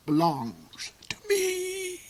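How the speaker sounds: slow unvoiced villain whisper; whispered gloating claim; menacing whisper. A narrator's reading. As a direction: breathe the threat out slowly.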